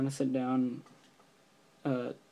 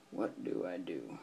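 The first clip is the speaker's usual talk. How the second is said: unsure beginner; 7 semitones lower, 9 dB quieter, slower than usual. Retold or imitated. Acting out his nervous first-timer question.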